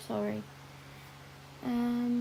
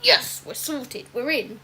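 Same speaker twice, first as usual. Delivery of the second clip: retold celebration; 6 dB louder than usual. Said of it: "and I was like".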